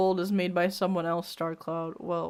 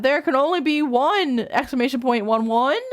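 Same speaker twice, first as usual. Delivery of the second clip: high, raised howl of a cat warrior; 4 semitones higher, faster than usual. Acted. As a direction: howl it out like a cat claiming a mate. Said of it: "howled Firestar".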